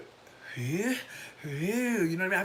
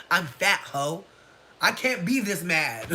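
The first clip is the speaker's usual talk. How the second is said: louder, slow, laughing through it; laughing rant; 2 semitones higher, 6 dB louder, slower than usual. Retold or imitated. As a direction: laugh while ranting. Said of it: "And I'm like".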